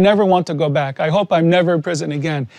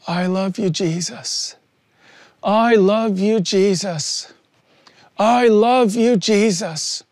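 weeping prayer; 2 semitones higher, slower than usual. Retold or imitated. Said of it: "I was weeping aloud".

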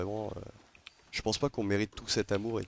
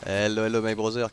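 "Hello, hello" in a hammed-up French accent, said at normal volume; 3 dB louder than usual. Streamer greeting a Reaper crew, casual French-accented hello. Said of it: "j'en joue gavé du vieil accent franchouillard".

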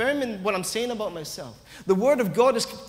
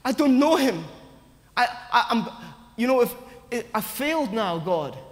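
anguished denial; 4 semitones higher than usual. Retold or imitated. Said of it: "you felt".

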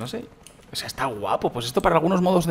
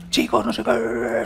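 higher, slow, sing-song cheer; mock super happy; 8 semitones higher, much slower than usual. YouTuber mimics his own happy video intro, higher and drawn out. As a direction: imitate himself overjoyed at losing it. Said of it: "súper feliz".

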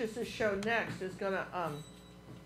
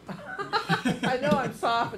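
laughing; 2 semitones higher, 4 dB louder, much slower than usual. Real, not acted. Laughing about soft voice.

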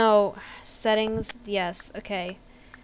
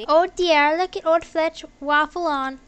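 higher-pitched, hammed-up Australian character voice; attempted Australian lilt, pitched up; Australian accent; 5 semitones higher than usual. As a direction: read it as a chirpy put-on Aussie. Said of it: "Is this like an Australian thing".

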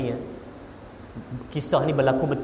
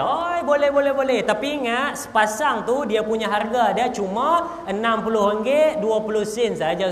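eager hedging; 4 semitones higher than usual. Acted. Father to his children, cheerfully capping the budget. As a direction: reassure the kids, then sneak in the limit.

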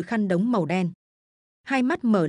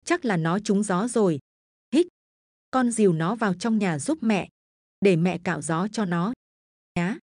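tearful. Acted. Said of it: "Bà cụ Tứ mếu máo".

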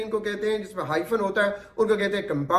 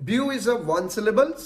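slow explaining; much slower than usual. Shown as a demonstration. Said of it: "जैसे मैं word बोल रहा हूं ब्यूटीफुल".

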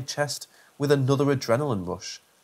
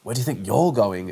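snarled; 3 semitones lower, 3 dB louder than usual. Acted. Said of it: "it snarled".

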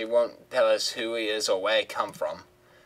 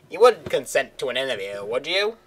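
lightly raised hopeful woman's voice; Simone's voice; 3 semitones higher than usual. Acted. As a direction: ask sweetly for an interview. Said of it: "her voice is hard to do".

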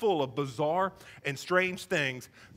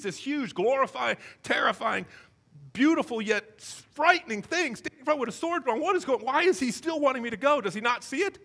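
mildly panicked, higher-pitched questioning; mock alarm, pitched up; freaking out; 5 semitones higher than usual. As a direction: act out a bewildered freak-out. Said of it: "starts to freak out".

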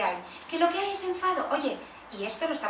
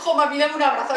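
put-on louder, childish plea; pleading child; 8 dB louder than usual. Child role-play asks mum for a hug, loud and pleading. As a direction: beg mum for a hug like a small kid.

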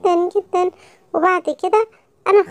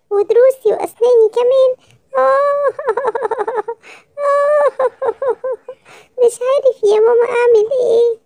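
put-on whiny tearful child; 4 semitones higher than usual. Child whining to mother, in pain.

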